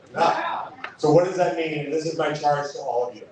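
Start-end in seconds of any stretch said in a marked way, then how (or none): 0.1-0.7 sharp high cry of "Enough"; rally speaker's high, ringing call. Real, not acted. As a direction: fling the word Enough up high at the crowd. Rallying crowd against leaders.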